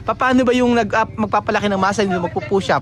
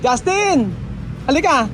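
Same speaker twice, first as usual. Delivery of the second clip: calling out; 3 semitones higher, slower than usual. Real, not acted. Calling a child over.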